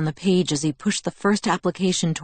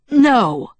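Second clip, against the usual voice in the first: loud, higher angry growl; 7 semitones higher, 6 dB louder than usual. Acted. Father refusing his daughter's trip, angry growl. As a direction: bark the refusal like a protective dad. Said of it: "But Charlie growled".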